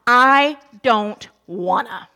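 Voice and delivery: slow, flat-out whiny refusal; blunt refusal. Retold or imitated. Moses refusing God's call, slow blunt whine. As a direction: say it like a stubborn kid. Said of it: "His final excuse is just blunt".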